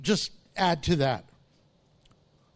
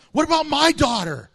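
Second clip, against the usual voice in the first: anxious father; 6 semitones higher, 5 dB louder than usual. Acted. Jairus voiced anxiously interrupting.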